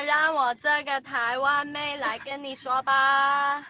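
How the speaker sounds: put-on slow, sweet Taiwanese girl speech; lightly voiced Taiwanese girl.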